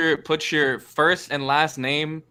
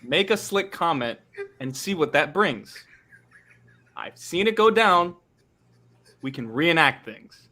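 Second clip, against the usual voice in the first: slow spoken-word verses; slow poem reading; slower than usual. Acted. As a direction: recite each line slowly. Reads his poem aloud.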